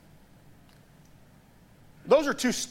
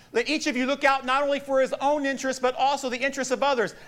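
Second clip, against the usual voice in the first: raised, declaimed Bible verse; scripture reading; 8 semitones higher than usual. Acted. Preacher reads Paul's letter to the church, declaiming. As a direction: proclaim the verse to the congregation.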